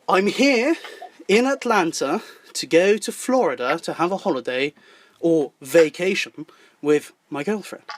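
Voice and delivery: put-on careful, spaced-out English accent. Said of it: "I used the English accent".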